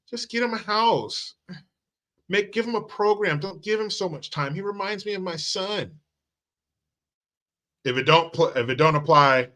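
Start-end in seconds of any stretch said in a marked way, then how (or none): 0.1-6.0 high, pleading mock voice of a bleeding heart. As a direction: parody a naive do-gooder, pitched way up. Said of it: "and say".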